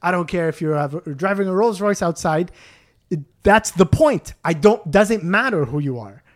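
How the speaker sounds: mildly heated, emphatic protest. Retold or imitated. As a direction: argue the point with rising indignation. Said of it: "now I started to raise my voice".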